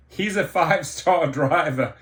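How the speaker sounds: scoffing laugh breaking into the words; incredulous laughing. Real, not acted. Driver mocks the CEO's five-star claim, laughing in disbelief.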